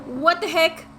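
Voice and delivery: loud startled exclamation. Acted. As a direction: jump at the sudden noise. Startled by a noise.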